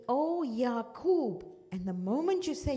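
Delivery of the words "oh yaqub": loud call across the valley. Retold or imitated. Yusuf tells the traveller to call out loudly for Yaqub. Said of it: "Call out in your loudest voice".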